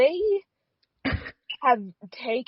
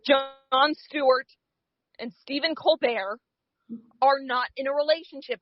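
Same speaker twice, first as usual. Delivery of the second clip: mock announcer; 5 semitones higher than usual. Cohost delivering a mock legal disclaimer, announcer-style. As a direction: read it like a grave official notice.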